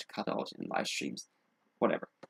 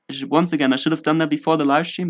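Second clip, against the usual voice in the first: louder, frustrated self-scolding; 4 semitones higher, 7 dB louder than usual. Real, not acted. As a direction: scold yourself loudly. Frustrated at setup.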